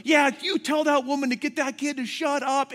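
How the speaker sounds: high, loud heckle from behind the counter; retold angry clerk. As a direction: imitate a clerk yelling along. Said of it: "the clerk behind the counter".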